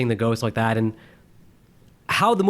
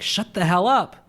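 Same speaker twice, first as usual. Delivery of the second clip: higher-pitched annoyed retort; mock irritation; 6 semitones higher, slower than usual. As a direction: imitate snapping at a noisy moviegoer. Imitates annoyed reply to a heckler.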